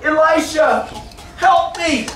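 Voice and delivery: mock cry for help. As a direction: call out in acted distress. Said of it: "he cried out".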